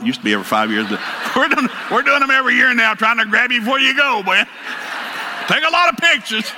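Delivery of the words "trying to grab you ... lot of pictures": calling out. Real, not acted. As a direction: call it out to the photographer. Calling out to the photographer.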